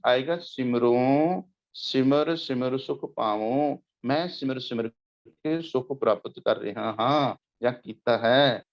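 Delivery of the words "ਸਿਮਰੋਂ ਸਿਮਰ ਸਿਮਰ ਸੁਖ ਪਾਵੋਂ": ਸਿਮਰੋ and ਪਾਵੋ with a nasal final "on"; nasalised endings. Shown as a demonstration. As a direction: draw out ਸਿਮਰ ਸਿਮਰ, nasalise the end of ਪਾਵੋ. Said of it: "ਉੱਤੇ ਬਿੰਦੀ ਲੱਗ ਜੇਗੀ". (ਸਿਮਰੋ, ਪਾਵੋ ਦੇ ਅੰਤ ਵਿੱਚ ਨਾਸਕੀ "ਓਂ")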